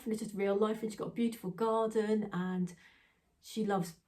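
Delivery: usual speaking voice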